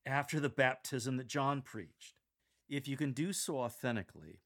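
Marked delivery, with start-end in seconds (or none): 0.1-2.1 excited proclamation; peak enthusiasm. Shown as a demonstration. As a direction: bring the excitement to its height. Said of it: "bring your enthusiasm to its apex".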